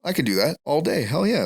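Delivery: high cocky brush-off; scoff, sure of yourself. Retold or imitated. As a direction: rookie officer shrugging off easy advice, cocky. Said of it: "I was like".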